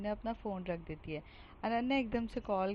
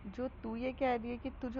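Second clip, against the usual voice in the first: shocked; 2 semitones higher than usual. Acted. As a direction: stretch it out in sheer disbelief. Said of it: "एकदम से shocked होकर बोलती है". (हैरानी से धीमे, ऊँचे स्वर में)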